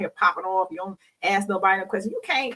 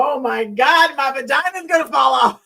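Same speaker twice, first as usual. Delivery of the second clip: louder, slightly higher half-joking panic; mock panic; 4 semitones higher, 5 dB louder than usual. After sex, panicking to herself in mock horror. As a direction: play it up like you just realized the damage. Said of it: "then I turn around and go".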